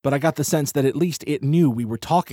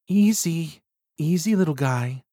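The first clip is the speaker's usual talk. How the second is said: calm soothing voice; 5 semitones higher than usual. A narrator's reading. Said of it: "in a calm, soothing voice".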